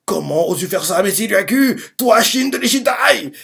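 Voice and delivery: acted henchman's protest, rising sharply in pitch; outraged cry. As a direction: voice climbing to a high mock yell. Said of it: "Il crie ça à Shin".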